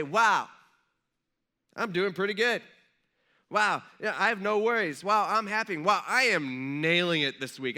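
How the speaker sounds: loud, pleased-with-yourself boasting; mock self-congratulation. Acting out us when life goes good, loudly self-satisfied. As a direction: play someone thrilled with their own success.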